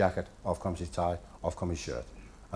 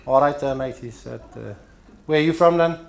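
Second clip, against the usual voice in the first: Scouser voice; 5 semitones higher, 5 dB louder than usual. Retold or imitated. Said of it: "he goes".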